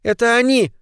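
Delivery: put-on high terrified little girl's cry; child's scream. A narrator's reading. A scared girl cries out that the bad men are back, high shriek. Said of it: "закричала она".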